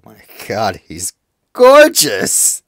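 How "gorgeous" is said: very high, loud, drawn-out squeal; gushing. Real, not acted. Streamer sees the new bird, gushing high outburst. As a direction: gush in awe, stretching it out.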